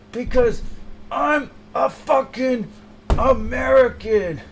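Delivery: mock patriotic fart manifesto; defiant rant. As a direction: declare it like a patriotic anthem.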